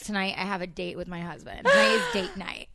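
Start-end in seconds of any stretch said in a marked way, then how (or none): 1.7-2.8 excited squeal. Real, not acted. Excited about tonight's date.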